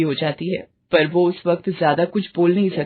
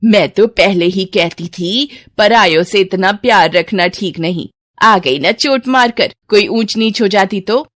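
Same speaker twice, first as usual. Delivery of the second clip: put-on meddling old aunt; 5 dB louder than usual. Aunt blaming the neighbours for the child's hurt, loud scolding. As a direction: lean hard on each reproach.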